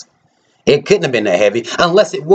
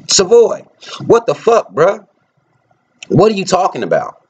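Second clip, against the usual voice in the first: exasperated outburst; 7 semitones higher than usual. Real, not acted. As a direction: yell his name in real disbelief. Confronting a rival in anger.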